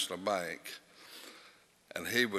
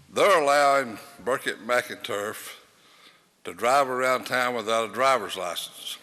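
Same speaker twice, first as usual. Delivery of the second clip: retold indignant complaint, raised and louder, a bit fast; complaining lady; 4 semitones higher, 5 dB louder than usual. Lady phoning the mayor about Burkett, mock-indignant. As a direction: mimic the caller's huffy demand. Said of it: "She said".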